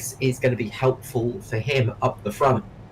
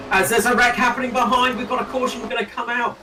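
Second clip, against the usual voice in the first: excited; 9 semitones higher, faster than usual. Real, not acted. Wreck happening during race.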